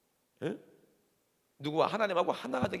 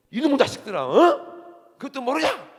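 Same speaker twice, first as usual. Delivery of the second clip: loud scolding shout, pitched up high; retold yell; 10 semitones higher, 13 dB louder, slower than usual. Jesus yelling at his disciples, loud scolding shout. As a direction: roar at slow disciples. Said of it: "예수님도 막 소리를 지르고".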